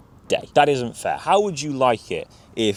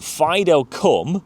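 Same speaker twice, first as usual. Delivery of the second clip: higher-pitched call of "Fido, come"; recall cue; 6 semitones higher, much slower than usual. Shown as a demonstration. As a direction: call out the cue to your dog.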